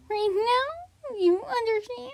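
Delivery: high-pitched rising demand; put-on threatening voice. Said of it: "stop doing your voice like that".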